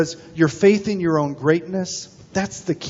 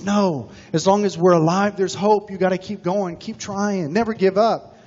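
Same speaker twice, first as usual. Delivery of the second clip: higher-pitched, lightly voiced little frog; determined little frog; 4 semitones higher than usual. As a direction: urge a friend on, pitched up. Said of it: "And the little frog says".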